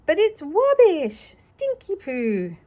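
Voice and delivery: put-on high, loud little-kid whine; childish disgust. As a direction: squeal at the stinky rubbish.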